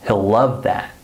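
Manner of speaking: HE'LL reduced to sound like "hill"; unstressed HE'LL, no EE sound; short I contraction. Shown as a demonstration. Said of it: "Do you hear the I vowel sound".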